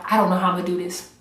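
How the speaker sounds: fast, rushed I don't know how I'm gonna do this; rushed worry. Retold or imitated. Recalling hard challenge days, a rushed mock worry. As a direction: race through it in mock panic. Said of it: "was there days that I was like".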